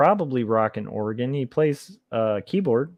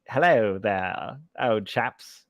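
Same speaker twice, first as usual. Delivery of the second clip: put-on slow, affected Transatlantic accent, lightly done; a light mock of an old-film Transatlantic drawl; playful Transatlantic accent at a slow pace; Katharine Hepburn Transatlantic accent; much slower than usual. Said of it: "Katharine Hepburn, like".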